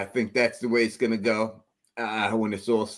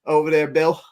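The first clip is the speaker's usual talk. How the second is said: lightly put-on British accent, a bit higher; mock British accent; 5 semitones higher, 4 dB louder than usual. Imitating British contestants on a reality show, a hint of British accent. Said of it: "they're like".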